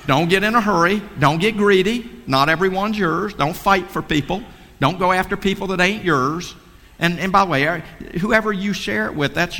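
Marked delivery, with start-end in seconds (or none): 0.1-6.5 emphatic shout. Real, not acted. Exhorting the audience with rules.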